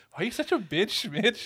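high whiny mock voice. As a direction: squeal it like a nagging parent. Mocking parents' nagging.

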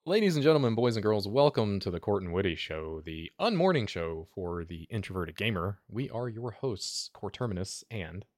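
booming radio host intro, slowing at the end; radio announcer voice. Acted. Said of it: "You got the radio voice".

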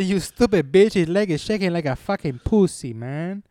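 sneering put-down, imitated; mock sneer. Imitating the daughter mocking his shaking leg, exaggerated sneer. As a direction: voice her contempt in a hammed-up sneer. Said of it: "she sneered at".

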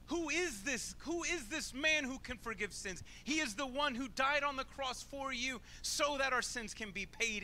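high, rising preacher's proclamation; preaching. Acted. Pastor proclaims Jesus to the congregation, fervent preaching. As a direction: build it like a sermon climax.

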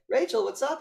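high, loud phone hello; hammed-up breezy greeting; mock cheery greeting. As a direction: imitate an upbeat friend picking up. Acts out lawyer's phone greeting.

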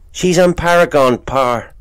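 high, loud country lad; boy voice. Acted. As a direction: show off a fancy word, proud. Boy answers father.

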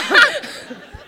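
bright burst of real laughter; real high laugh. Real, not acted. Laughing at her crying story with friends. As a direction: she laughs at her own confession.

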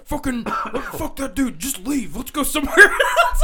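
loud, high outburst breaking into laughter; retold exasperated urging. Storyteller recounting a text to friends while driving, loud laughing exasperation. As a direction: blurt it out, laughing.

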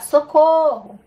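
high, loud cry of "socorro!"; shouting for help. Shown as a demonstration. Teacher acts out calling for help from a burning house, shouted high. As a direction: call for help as if the house is on fire. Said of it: "Eu posso gritar".

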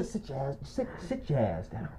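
very quiet, low retold command; hushed order. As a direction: imitate a friend too done to raise his voice. Repeats friend's hushed order.

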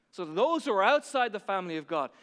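modelled prayer. Shown as a demonstration. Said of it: "ask that question today of yourself".

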